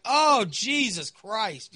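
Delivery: long, drawn-out groaning curse; exasperated. Retold or imitated. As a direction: stretch each word in slow exasperation. Retold exasperation at the news.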